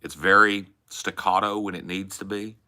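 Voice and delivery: easy storytelling Southern lilt; Texas accent. Shown as a demonstration. Praising the accent as great for stories, Texas accent. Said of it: "when you're using this accent".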